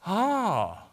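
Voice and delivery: mock movie gasp and sighed "ah"; awed gasp. Movie women walk into the tomb, mock awed gasp. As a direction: breathe in, then a reverent "ah". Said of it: "they walk in like".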